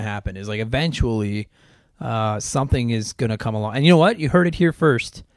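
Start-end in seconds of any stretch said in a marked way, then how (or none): 3.7-5.2 big announcer-style proclamation; proclaiming boldly. Real, not acted. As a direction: declare it like breaking news. Bold prediction announced to listeners.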